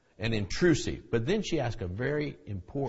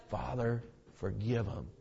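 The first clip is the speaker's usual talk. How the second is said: tender plea. Acted. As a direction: drop to a tender hush. Jesus forgiving from the cross.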